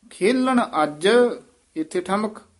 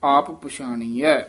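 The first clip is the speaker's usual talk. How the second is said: drawn-out recitation; much slower than usual. Shown as a demonstration. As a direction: hold ਸੋਹੰ long and full before going on. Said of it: "ਇਹ ਪਾਠ ਯਾਦ ਰੱਖਣਾ ਹੈ".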